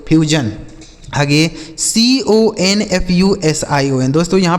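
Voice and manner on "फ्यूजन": "फ्यूजन" as fyu plus jan; falling "फ्यूजन" with j for the s; model pronunciation. Shown as a demonstration. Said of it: "यह लिखा गया आपका फ्यूजन". ("फ्यूजन", अंत में जन)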